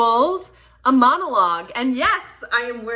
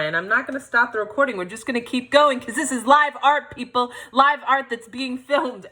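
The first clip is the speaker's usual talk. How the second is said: fast, higher-pitched push onward; upbeat determined aside; 6 semitones higher, 3 dB louder than usual. Real, not acted. Performer tells viewers she won't stop recording, upbeat aside. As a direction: rattle it off to keep the show going. Pushes on after a flub.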